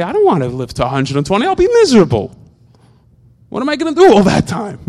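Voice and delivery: mock complaining person. Imitating people who dread living long, a whiny grumble. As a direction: mimic someone dreading a long life. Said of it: "People say".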